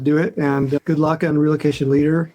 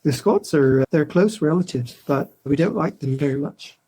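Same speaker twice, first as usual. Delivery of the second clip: put-on Irish lilt going up and down; playful imitation Irish; sing-songy Irish accent. Shown as a demonstration. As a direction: demonstrate an Irish accent with rolling tune. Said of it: "Irish is a bit sing-songy".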